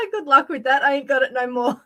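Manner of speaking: amused, laughing through the words; laughing retort. Retold or imitated. Answering the recall letter, laughing it off. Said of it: "and I'm like".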